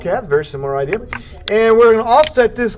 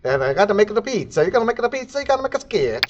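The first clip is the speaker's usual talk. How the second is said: hammed-up Italian accent, "pizza" as "pitso"; a bad Italian chef accent; playful fake Italian accent; mock Italian accent; 4 dB quieter, faster than usual. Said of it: "my Italian accent needs some work".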